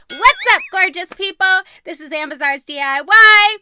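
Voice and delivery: loud, high intro greeting; youtuber intro. Real, not acted. Vlogger greeting her viewers, loud upbeat intro. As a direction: pump up the channel welcome.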